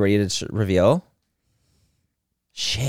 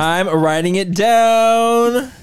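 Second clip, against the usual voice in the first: drawn-out teasing; 7 semitones higher, much slower than usual. Real, not acted. Teasing repeat while writing.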